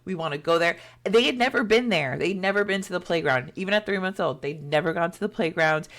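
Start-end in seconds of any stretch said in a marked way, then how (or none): 0.1-0.8 lightly voiced pleading little girls; a touch of a child's plea, no real crying; imitated begging. Twins begging parents to visit the playground, imitated pleading. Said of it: "they begged and pleaded and cried".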